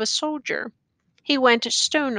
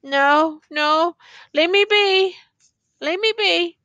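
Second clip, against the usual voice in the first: high, insistent refusal; brushing aside help; 7 semitones higher, 3 dB louder than usual. A narrator's reading. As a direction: wave off every offer, pitched up. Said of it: "he brushed aside".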